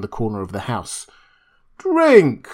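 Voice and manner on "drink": put-on very high, loud drunken command; crying out. A narrator's reading. Montgomery urging the beast people to drink, very high and loud. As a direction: hurl the order at the brutes. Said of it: "cried Montgomery".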